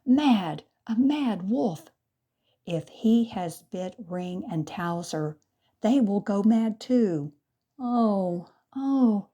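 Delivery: high, loud panicked wail; panicked cry. A narrator's reading. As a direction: cry out in alarm. Master panics about madness.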